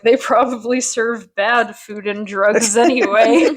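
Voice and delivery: slow, giggling through the joke; laughing through it. Retold or imitated. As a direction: quote it while cracking up. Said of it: "Mike is like".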